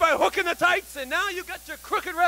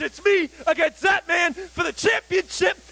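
wrestling promo. Acted. Wrestler calls out champion.

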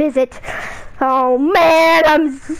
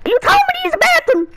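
dad voice; faster than usual. Acted. Dad voice defending.

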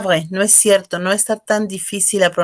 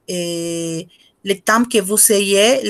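very slow; much slower than usual. Real, not acted. Teacher stretching a phrase.

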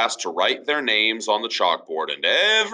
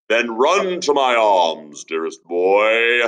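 slow, touched father voice, a touch louder; mild tender father; 4 dB louder, slower than usual. Acted. Father forgiving his son, mildly moved and slow. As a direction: open your arms to the boy. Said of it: "cried his father".

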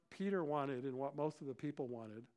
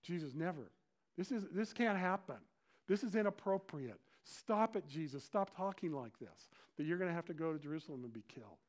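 raised, insistent objection; Peter's protest; 2 semitones higher than usual. Acted. Peter telling Jesus to stop, protesting. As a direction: shut the idea down firmly. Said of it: "Peter says".

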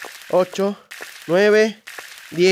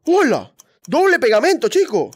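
excited; 4 semitones higher, 3 dB louder than usual. Real, not acted. Cheering at double glue.

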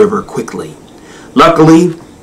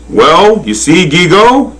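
higher, kindly storybook voice; very gentle; 8 semitones higher than usual. A narrator's reading. Good Lord explaining himself to the giraffe, gently. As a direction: explain it kindly in a raised pitch. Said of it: "he said very gently".

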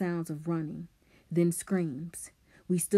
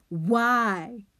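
loud, high anguished cry; screamed; 6 semitones higher, 7 dB louder than usual. A narrator's reading. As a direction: cry it out, raised and drawn out. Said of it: "Simon screamed".

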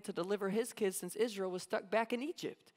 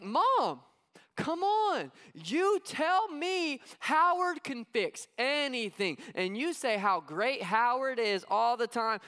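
put-on whiny kid, higher and louder, pleading; insistent kid; 3 semitones higher, 4 dB louder, slower than usual. Kid pleading with his mom about Howard. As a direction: press it like a frustrated child. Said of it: "she's like".

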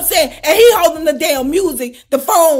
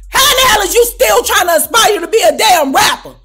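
incredulous outburst; 6 semitones higher, 5 dB louder than usual. Retold or imitated. Outraged aside about a 63-year-old rapper.

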